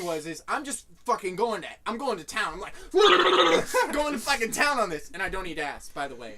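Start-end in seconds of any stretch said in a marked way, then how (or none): 2.8-3.9 high, loud mimed munching; wild slobbering eating sound; mock feeding frenzy; loud gobbling noise. Mimics gobbling watermelon.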